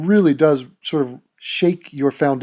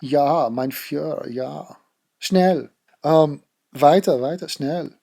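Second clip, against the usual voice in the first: mock German in bed; slower than usual. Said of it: "It's not like".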